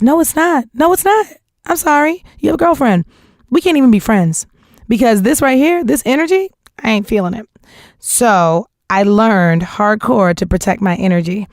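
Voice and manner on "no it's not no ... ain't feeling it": higher-pitched emphatic no; firm refusal. Retold or imitated. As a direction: turn him down, high and insistent. Retelling her refusal in an argument.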